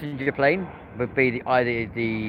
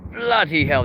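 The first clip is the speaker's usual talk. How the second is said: astonished exclamation; 6 semitones higher, 4 dB louder than usual. Real, not acted. Shocked by a late touchdown.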